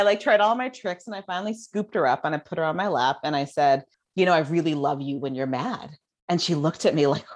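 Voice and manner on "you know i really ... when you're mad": put-on calm an upset little girl on your lap; tender reassurance. Mother to her angry daughter, tender and low.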